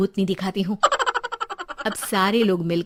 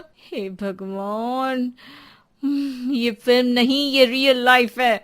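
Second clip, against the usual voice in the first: exasperated; 3 semitones higher, slower than usual. Acted. Wife exasperated at husband.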